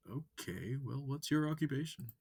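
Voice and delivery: high, loud, eager wolf voice; bright curious alien asking questions. Acted. Amicus questioning the human, high and eager.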